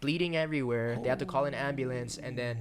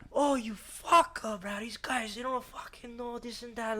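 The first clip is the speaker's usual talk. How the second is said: high, slow mocking Hawaiian pidgin accent; a guy muttering in Hawaiian pidgin accent; imitating local accent; 11 semitones higher, slower than usual. Security guard mimics the angry guy in Hawaiian pidgin accent. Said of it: "the accent".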